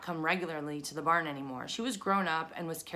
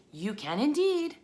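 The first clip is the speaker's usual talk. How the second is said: high, bright tiny voice; high spider voice; 8 semitones higher, 5 dB louder than usual. Acted. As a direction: chirp it high and loud. Spiders answer Wilbur.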